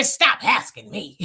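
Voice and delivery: hammed-up haughty put-down, drawn out slowly; mock a haughty politician brushing people off. Host mimicking a politician tired of questions, haughty. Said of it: "they get so haughty and say".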